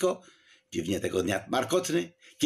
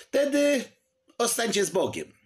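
mock solemn farewell; 12 semitones higher than usual. A narrator's reading.

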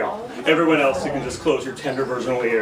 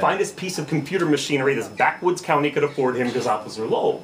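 low, measured spoken-word indictment; slam poetry; 3 semitones lower than usual. Acted. Driver blaming Officer Lowell, slam poetry. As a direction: lay out the charge deliberately in a low register. Second slam poem continues.

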